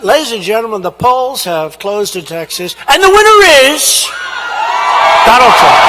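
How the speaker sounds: booming results announcement, building to the winner's name; announcer voice. Retold or imitated. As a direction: call it out like a TV election announcer. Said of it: "they said".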